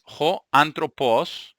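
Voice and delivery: "jo" said with a breathy h sound, slow and clear; teacher to students, demonstrating "jo antropos" slowly; Greek pronunciation. Shown as a demonstration. Teacher to Spanish-speaking students, demonstrating "jo" clearly. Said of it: "se pronuncia jo".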